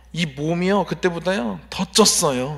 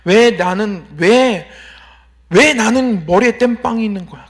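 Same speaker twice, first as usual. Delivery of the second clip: mildly indignant why-me grumble; retold complaint; 4 dB louder than usual. Middle-schooler grumbling about his own body, retold complaint. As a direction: build from muttered gripe to louder protest. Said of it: "항상 불평만 했었던 것 같아요".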